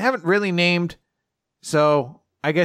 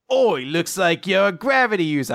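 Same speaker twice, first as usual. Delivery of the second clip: put-on British accent; 5 semitones higher than usual. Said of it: "I don't know why he's British now".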